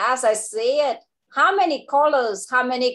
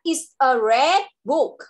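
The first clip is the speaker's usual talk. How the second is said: model sentence; slower than usual. Shown as a demonstration. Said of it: "Con sẽ nói là".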